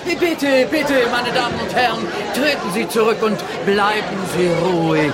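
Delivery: grudging. Acted. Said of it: "was er zähneknirschend tut".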